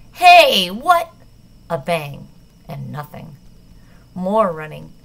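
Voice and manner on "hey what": loud, high startled shout; shout from the hallway. Acted. Guard yelling as they run past, alarmed. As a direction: yell it in alarm. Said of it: "a shout from the hallway".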